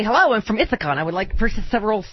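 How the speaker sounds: mock upstate New York voice, quick; imitating an Ithaca caller in a New York accent. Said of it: "Why do you pronounce it like that?".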